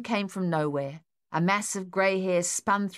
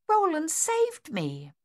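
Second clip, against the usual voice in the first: grateful cry; 11 semitones higher, slower than usual. A narrator's reading. Mother relieved, shaken.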